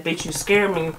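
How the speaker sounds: soft, understated mimicry of a meek confession; low meek voice. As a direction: quietly imitate a timid daughter. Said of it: "She said it in this low voice".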